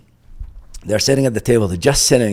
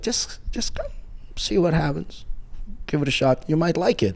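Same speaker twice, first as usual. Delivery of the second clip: higher-pitched, easygoing persuasion; gentle coaxing; 8 semitones higher, 3 dB quieter than usual. Retold or imitated. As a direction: coax a reluctant kid to give it a try. Coach coaxes him to try boxing.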